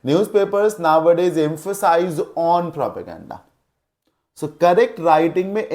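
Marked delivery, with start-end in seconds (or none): 0.1-3.4 Newspapers nowadays emphasize on propaganda read out very slowly; teacher reading the faulty sentence slowly; slow example read. Shown as a demonstration. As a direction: dictate the wrong example word by word. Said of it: "कैसे?".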